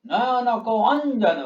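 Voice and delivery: slow "নয়নক", then "অঞ্জন" leaned on at the start; stress on অ. Shown as a demonstration. Teacher reciting the verse, stress on first syllable of "অঞ্জন". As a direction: recite slowly, pushing the "অন" of "অঞ্জন". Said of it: "অয় জোর দিচ্ছি".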